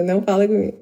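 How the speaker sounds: repeats não fala comigo through a laugh; não fala comigo said laughing, no longer tense. Retold or imitated. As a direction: lets the warning dissolve into a laugh. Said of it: "É, tipo assim".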